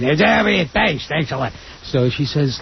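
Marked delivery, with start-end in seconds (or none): 0.2-1.5 Gilbert Gottfried impression. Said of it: "that's a great Gilbert Gottfried impression".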